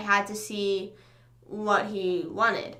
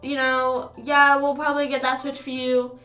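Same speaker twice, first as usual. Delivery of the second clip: mock counselor; 2 semitones higher, 4 dB louder than usual. Mimics counselor calling student.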